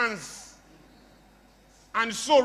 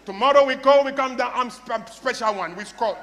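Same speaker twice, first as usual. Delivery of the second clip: mock bad-English coach; stumbling foreigner's broken English, loud start then dropping; Jose Mario; 3 dB louder than usual. Speaker mimics coach's bad English, mock stumbling. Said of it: "That's how he talks".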